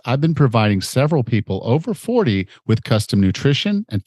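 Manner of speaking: upbeat, persuasive sales pitch; ad read. Acted. Coach pitching his fitness program to listeners, upbeat ad read. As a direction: sell the challenge straight to the listener. Host reads a recorded ad.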